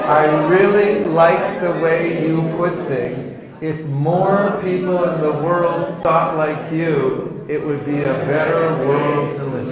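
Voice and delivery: slow, loud, earnest praise; slow flattering compliment. Shown as a demonstration. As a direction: lay on the flattery, slowly. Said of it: "you can use that line".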